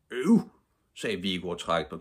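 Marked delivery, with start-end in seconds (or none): 0.1-0.5 high, loud groan of annoyance; fed-up boy's exclamation; disgruntled. A narrator's reading. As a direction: protest in disgust. Boy disgusted at the excuse.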